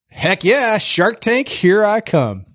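high-pitched, eager survey answer; gung-ho. Acted. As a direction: play an eager would-be entrepreneur. Acts out survey choice, gung-ho.

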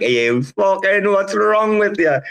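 high, incredulous Scouse yell of disbelief; mock outraged kebab man. Kebab shop man scolding lads planning to camp, high incredulous mock yell. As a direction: ham up a kebab man who thinks you're mad. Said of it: "this guy just like".

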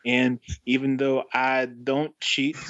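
halting, badly faked Boston accent; shaky attempt at Boston accent. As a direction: read the letter in a struggling Boston accent. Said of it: "I can't do this".

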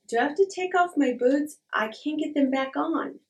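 high, plaintive pleading retold. Pleading with the cop at security.

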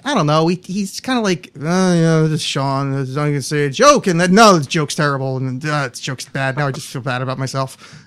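mumbled, self-deprecating comedian impression; Sean McGann. Host telling a friend who the guest is, lightly imitated dejected comic. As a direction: sink into glum self-doubt, lightly imitated. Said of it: "there's my Sean McGann impression".

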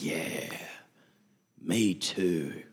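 offended friend agreeing, low and sullen; mock agreement. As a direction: mumble along with the grumblers.

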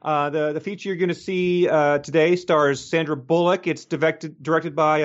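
a hint of a bubbly usher; perky usher voice. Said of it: "she was like".

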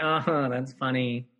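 slow, dry, half-amused; unimpressed smirk. Retold or imitated. Angie unimpressed by the joke, slow dry smirk. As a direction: say it like you're not amused at all. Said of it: "she, like, basically smirks".

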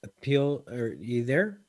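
breaking up on a bad call line; choppy voice cutting in and out; fading in through static. Real, not acted. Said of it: "you're definitely frozen there for a second".

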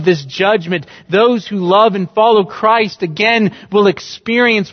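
preacher thundering rhetorical questions at the congregation; fiery preaching. Acted. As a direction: preach it from the pulpit at full force. Preaching at full force.

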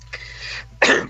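harsh dry throat clear. Real, not acted. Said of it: "problemy z gardłem". (odchrząknięcie)

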